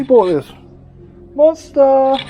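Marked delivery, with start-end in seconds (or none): 1.3-2.2 excited shout. Real, not acted.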